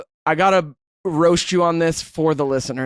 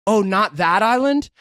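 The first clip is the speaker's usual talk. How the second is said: raised, drawn-out mock promo voice; imitating co-host's promo; 5 semitones higher, 4 dB louder, slower than usual. Co-host teasing Dan about his promo, mock announcer voice. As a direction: mimic a friend's botched announcement, louder and slower. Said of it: "He stops doing the accent".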